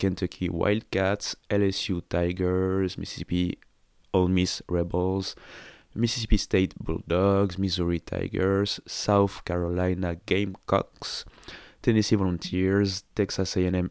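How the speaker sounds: English accent on names, American-accented. Listing team names in english during french talk: english accent on team names. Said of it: "je prends tout le temps l'accent".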